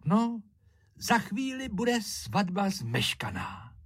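high tearful plea, fading to a whisper; tearful bride. A narrator's reading. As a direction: plead close to tears. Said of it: "rozplakala se Márinka".

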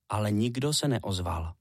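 usual speaking voice

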